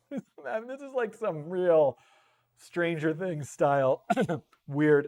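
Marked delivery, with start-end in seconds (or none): 2.6-5.1 coughing mid-word; coughing on dust. Real, not acted. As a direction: cough through the words. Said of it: "I think I inhaled a lot of dust".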